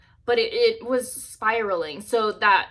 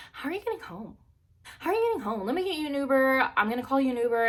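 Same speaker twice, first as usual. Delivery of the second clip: higher-pitched imitation of insistent people; nagging bystanders; 5 semitones higher, faster than usual. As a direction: mimic concerned people pestering, pitched up. Others nagging about her ride.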